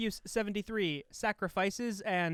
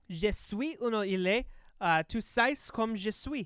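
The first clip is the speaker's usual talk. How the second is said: French pronunciation; 2 semitones higher than usual. Shown as a demonstration. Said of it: "This next album's gonna test my French".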